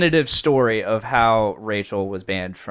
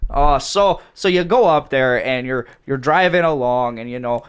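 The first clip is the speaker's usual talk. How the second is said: put-on Wisconsin accent. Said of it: "in a Wisconsin accent".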